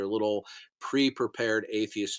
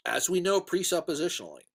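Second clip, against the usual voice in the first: talking through hiccups; hiccupping mid phrase; 4 semitones higher than usual. Real, not acted. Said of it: "excuse me, I have the hiccups".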